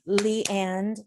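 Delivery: "lee and" set apart as one foot; single iamb. Shown as a demonstration. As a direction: say "lee and" as a detached pair of syllables. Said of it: "there's another one".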